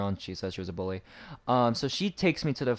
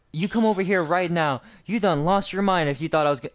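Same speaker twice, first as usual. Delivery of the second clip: higher-pitched mock telling-off; imitated angry scolding; 5 semitones higher, 3 dB louder than usual. Administrator scolding a mouthy student, imitated anger. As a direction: act out her ordering a student over.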